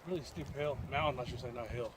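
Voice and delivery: winded and breathy after the climb; out of breath. Real, not acted. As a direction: talk while catching your breath. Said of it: "let me catch my breath".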